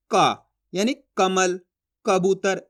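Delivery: "का", "कमल", "कबूतर" said slowly, one by one; model pronunciation. Shown as a demonstration. Teacher showing learners the letter through words, slow, separated "का", "कमल", "कबूतर". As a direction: sound out "का", then "कमल" and "कबूतर" with a clear initial k. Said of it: "इस तरीके से शब्द बोलोगे".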